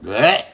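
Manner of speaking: disgusted bleh at the smell; light mock disgust; mock disgust noise. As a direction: spit out a grossed-out bleh. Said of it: "she's like".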